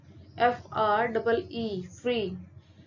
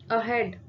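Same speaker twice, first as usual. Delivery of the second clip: अहेड with a light अ and weight on हेड; stress on हेड; slower than usual. Shown as a demonstration. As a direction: lean on the second syllable, हेड, in अहेड. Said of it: "वो हेड पे कर रहे हैं".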